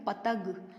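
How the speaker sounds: पतग with no nasal sound before ग; पतग as a bare oral word; without the nasal. Shown as a demonstration. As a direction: say पतग leaving out the anusvar. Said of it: "हमने क्या बोला".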